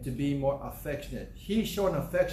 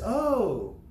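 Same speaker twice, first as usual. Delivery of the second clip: delighted surprise; 3 semitones higher, much slower than usual. Retold or imitated. Grandma receiving child's drawing.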